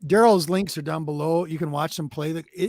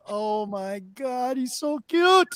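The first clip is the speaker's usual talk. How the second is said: gushing; 5 semitones higher, much slower than usual. Real, not acted. Cooing over a baby photo.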